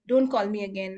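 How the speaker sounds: mildly angry phone brush-off. Acted. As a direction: shut the caller down, mildly cross. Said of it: "pick with so much anger".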